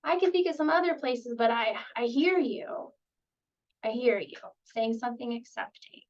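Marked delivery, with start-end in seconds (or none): 0.0-4.4 light, higher playful acceptance. Shown as a demonstration. Therapist playfully accepting a resistant kid's attitude. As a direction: tease gently to show you get it. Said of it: "I might say something playful like".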